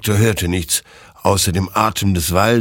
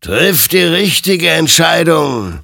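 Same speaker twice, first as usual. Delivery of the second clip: higher, louder, slow stern warning; admonishing; 10 semitones higher, 7 dB louder, slower than usual. Acted. The creature admonishes Hektor before he shoots. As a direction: warn him gravely. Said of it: "ermahnte ihn sein Gegenüber".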